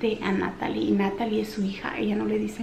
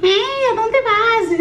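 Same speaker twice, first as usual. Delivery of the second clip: put-on much higher whiny little boy voice; clingy toddler; 13 semitones higher, 7 dB louder, slower than usual. Little Samuel follows mom everywhere, higher whiny toddler voice. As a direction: squeak it like a clingy small child. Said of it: "Como chicle".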